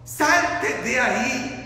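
slow, stretched command; mild preacher's shout. Retold or imitated. Preacher repeats Jesus's cry to those trapped, mild drawn-out shout. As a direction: draw out the order, calling out. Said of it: "Lo mismo que le gritó".

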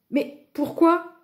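high, slow puzzled question; astonished. A narrator's reading. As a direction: ask in drawn-out bewilderment. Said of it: "s'étonna Lou".

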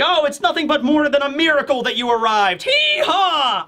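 camp it up and whoop at the end; flamboyant Ivankov. Retold or imitated. Ivankov welcoming the returning revolutionaries, high camp whoop.

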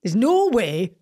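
careful imitation of a Geordie accent; passable Geordie. Shown as a demonstration. Repeating after the coach, passable careful Geordie attempt. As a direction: copy the Geordie line, only passably. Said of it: "That was okay".

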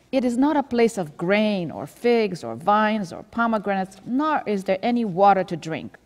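loud, whiny grumbling of a thirsty crowd; grumbling complaint. Retold or imitated. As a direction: complain loudly like the Israelites. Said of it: "starting to do their normal behavior. Complaining".

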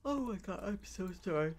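sudden high, loud alarm; startled. Real, not acted. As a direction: caught off guard, blurting out. Startled, apologizing to someone present.

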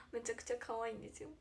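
ordinary talk, nothing marked

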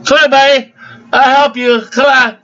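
high-pitched mocking clerk voice; mocking impression. Customer making fun of the store's little guy, high mocking voice. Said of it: "they got some little gimpy guy".

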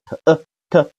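t, then 呃 as a short schwa, blended; teacher demonstrating weak 呃 after t; weak schwa sounding-out. Shown as a demonstration. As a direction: sound out t、呃 in separate short beats. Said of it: "在后缀上有饿肚子的".

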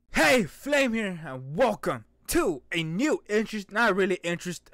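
normal talking voice

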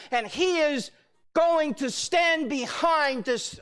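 emphatic, measured proclamation; full-force preaching. Acted. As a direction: declare each phrase with conviction.

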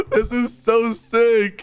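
slow, stretched, high-pitched delight; exhilarated. Real, not acted. Gamer up on the truck's lift, thrilled. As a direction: savor each word, high and drawn out.

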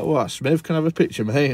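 put-on a quick London accent, excited to bump into a fellow creator; little London accent. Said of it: "that's my little London accent there".

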